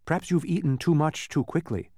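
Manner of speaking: mildly sympathetic suggestion. A narrator's reading. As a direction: offer it with sympathy. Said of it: "Milo remarked sympathetically".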